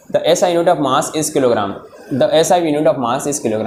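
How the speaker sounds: slow, measured classroom read-out; reading aloud. Real, not acted. Teacher reads the line for students, slow reading aloud.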